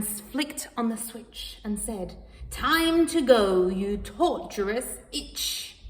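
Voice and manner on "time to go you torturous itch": determined. Acted. Cat turns on the Hoover.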